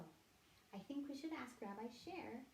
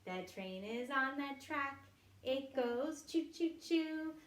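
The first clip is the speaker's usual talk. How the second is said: put-on reading to a toddler; 2 semitones higher, 3 dB louder, slower than usual. Animal sounds game for children.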